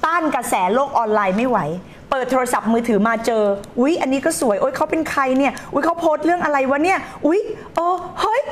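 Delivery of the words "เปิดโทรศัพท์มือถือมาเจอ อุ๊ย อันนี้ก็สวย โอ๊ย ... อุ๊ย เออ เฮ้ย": distracted scroller. Mimics distracted phone scroller.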